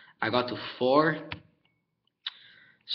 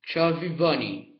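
talking with a full mouth; cheeks stuffed full; 3 semitones higher, slower than usual. Real, not acted. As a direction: say it through cheeks full of marshmallows. Mouth crammed with marshmallows.

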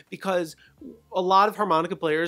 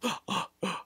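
inhaled gasp; 3 semitones higher, 5 dB quieter than usual. Shown as a demonstration. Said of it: "It's very weird".

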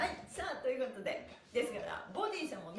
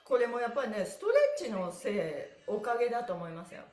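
excited; 7 dB louder than usual. Real, not acted. Excited praise of stretch board.

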